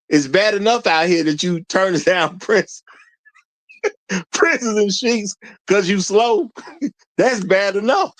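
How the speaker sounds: breaking into laughter while talking; mock it and crack up mid-sentence; struggling to hold the laugh in; laughing mockery. Real, not acted.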